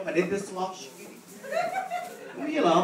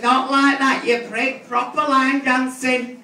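put-on teen snapping back; 4 semitones higher, 4 dB louder, slower than usual. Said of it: "She says".

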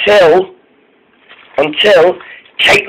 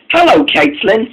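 lightly polite, higher-pitched hello; polite greeting; 11 semitones higher than usual. A narrator's reading. Molly arrives and greets Caitlin at the station, polite. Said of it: "said Molly politely".

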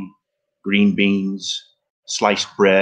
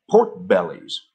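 slow, deliberate repeat for a brother who didn't catch it; 2 semitones lower, slower than usual. Acted. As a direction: spell it out slowly, word by word. Raymond repeats when asked again.

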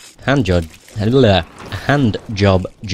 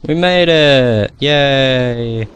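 excited relief; 3 semitones higher, much slower than usual. Real, not acted. Gamer finally clears the obstacle, cheering with relief.

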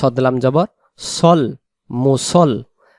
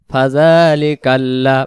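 slow recitation; much slower than usual. Shown as a demonstration. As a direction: recite it slowly like tajweed. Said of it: "recites the joined word slowly". (ধীরে তিলাওয়াত)

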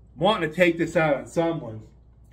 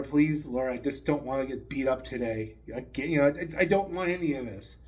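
quiet prayer; 4 semitones lower, 5 dB quieter than usual. Acted. Ned prays before the contest.

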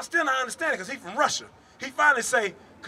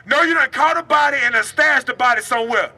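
raised, loud street-preacher delivery; forceful, high-pitched preaching; full-force preaching; 6 semitones higher, 8 dB louder than usual. Real, not acted. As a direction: confront the listeners with a warning.

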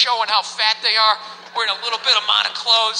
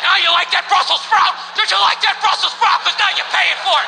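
bossy personal chef; 3 semitones higher than usual. Retold or imitated. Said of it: "and he's like".

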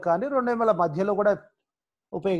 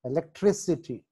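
ఎలక్ట్రిసిటీ with the stress on "tri"; ఎలక్ట్రిసిటీ, "tri" stressed, falling after it. Shown as a demonstration. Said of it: "టి దగ్గర".

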